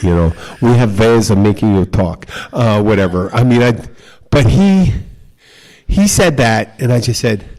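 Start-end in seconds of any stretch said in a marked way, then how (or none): 0.6-2.2 mock film-villain German accent; movie German accent. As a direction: put on a menacing German interrogator's accent, lightly. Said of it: "Raiders of the Lost Ark kind of German accent".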